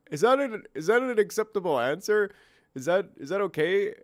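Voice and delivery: mock second-guessing with restarts; capitulating. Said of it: "kinda capitulating".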